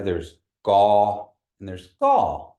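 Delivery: gaw then gaw in contrasting tones; two tones of gaw. Shown as a demonstration. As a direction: set one gaw against the other, slowly. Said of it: "different tones that we use in Kiowa".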